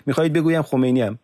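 high, loud and fast sarcastic jab; angry sarcasm. Acted. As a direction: throw the question back mockingly.

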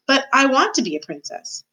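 high, plaintive protest; childish, wanting insistence; pleading serving girl. A narrator's reading. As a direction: wail it like a let-down girl.

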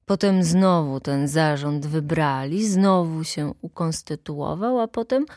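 lightly voiced plain-spoken official; plain-spoken secretary. Secretary criticising the board at the meeting, mildly blunt. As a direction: complain bluntly, dragging out the words.

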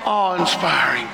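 building preacher's cry of praise; preaching at full force. Acted. Preacher to the congregation about God's greatness, rising shouts of praise. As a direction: pile up the praise, swelling to shouts.

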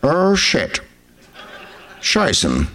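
mock actor voice cursing; Max von Sydow. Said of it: "And he'd be like".

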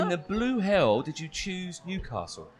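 slow laughing question. Real, not acted. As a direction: ask it through laughter. Amused disbelieving question.

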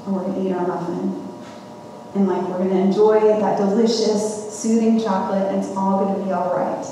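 softened storytelling; soothing anticipation. Retold or imitated. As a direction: tell it softly, as a promised comfort. Anticipating the comforting muffin.

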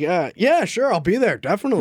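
lightly mocking Denny, casual and breezy; a breezy fake promise in a mock Denny voice. Host mimics no-show DJ in a breezy mock voice. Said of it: "You made fun of Denny in a Denny voice".

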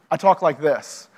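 lightly set-apart church register; faith-talk voice. Shown as a demonstration. Speaker showing how insiders discuss faith, lightly measured register. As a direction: say it as your talking-about-faith voice. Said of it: "When I talk about my faith".

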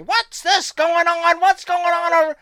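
high mock voice of a curious legend; gruff old star. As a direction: play the curious legend walking up. Marty voiced approaching.

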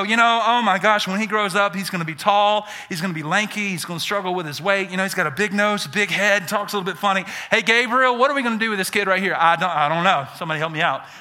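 lightly voiced fretting God; mock worried God. Pastor playing a fretting God, lightly voiced. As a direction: act out God fretting over the kid. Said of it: "God didn't go".

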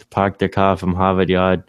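hammed-up Boston accent with dropped R's. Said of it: "sound like he's from Boston".

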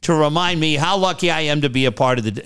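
lightly voiced gushing new coach; a hint of an overeager press conference; mock rah-rah speech. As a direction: play the grateful eager hire, mildly hammed. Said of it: "Ryan Rah Rah".

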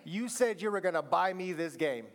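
lightly voiced whiny child; a hint of a pleading kid. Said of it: "I should do a kid voice".

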